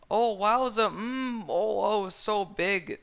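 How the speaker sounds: high, loud hammed-up moaning; silly high moans; mock moan. A narrator's reading. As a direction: overplay the excitement.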